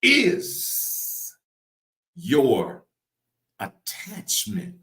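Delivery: high, very slow, long pauses between words. Real, not acted. Preacher repeating the key question, word by word. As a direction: let each word hang alone.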